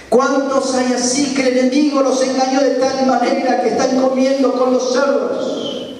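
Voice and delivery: high-pitched rhetorical challenge; impassioned preaching. Real, not acted. Preacher asks congregation about the deceived, impassioned preaching. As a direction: carry the question urgently to the congregation.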